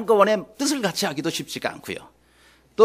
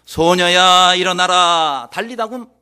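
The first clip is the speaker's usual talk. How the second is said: loud, sustained summons; commanding voice of Jesus; 9 dB louder, slower than usual. Acted. Jesus calling the dead girl to rise, loud command. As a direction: call out to wake the sleeper. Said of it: "이렇게 말씀하셨어요".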